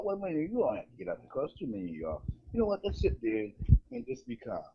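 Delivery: high, soft, coaxing and quick; overly polite cop. Retold or imitated. Cop telling seventeen white guys to stay calm, soft and coaxing. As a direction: soothe them like a cop who won't make trouble. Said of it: "And they say".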